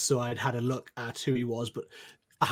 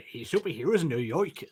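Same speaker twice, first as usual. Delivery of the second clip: put-on New York accent. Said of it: "That's my New York accent".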